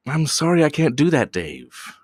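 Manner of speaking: calm, even robot voice trailing to a hush; a hint of a ship's AI; deadpan computer voice. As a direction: play the polite computer refusing. Quoting a creepy computer.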